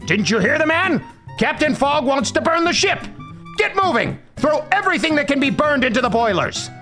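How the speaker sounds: high, bossy bellow to the crew; now eager to burn his ship; high-pitched captain barking commands; shouted orders. Acted. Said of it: "shouted to the crew".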